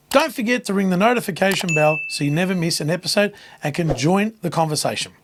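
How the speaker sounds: rough, worn-out voice; hoarse voice. Real, not acted. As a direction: voice nearly gone, hoarse. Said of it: "from my hoarse voice".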